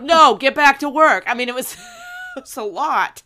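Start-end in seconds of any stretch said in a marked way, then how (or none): 0.0-1.2 loud, high stern order; stern shout. Retold or imitated. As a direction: snap the order at her. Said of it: "Anakin's like".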